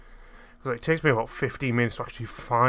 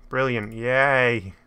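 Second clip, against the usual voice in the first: slow sarcastic cheer; 6 dB louder, much slower than usual. Real, not acted. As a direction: drag out a fake yay. Sarcastic about useless sign.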